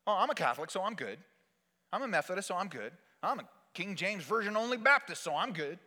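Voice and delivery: complacent excuse. Acted. Voices complacent churchgoers' excuses.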